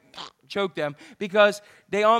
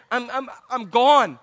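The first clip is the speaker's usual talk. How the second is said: losing it; 5 dB louder, slower than usual. Real, not acted. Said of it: "I'm losing it".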